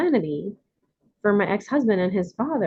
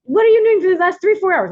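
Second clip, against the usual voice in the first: loud, high-pitched retold interrogation; mock demanding client; 11 semitones higher, 7 dB louder than usual. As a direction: imitate the client demanding an account. Voicing client's demanding phone call.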